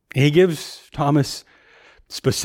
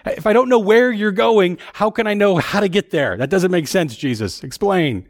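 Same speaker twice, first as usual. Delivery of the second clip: higher-pitched, bewildered questioning; confused Thomas; 5 semitones higher than usual. Acted. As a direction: play the lost disciple pleading for answers. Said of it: "Thomas says".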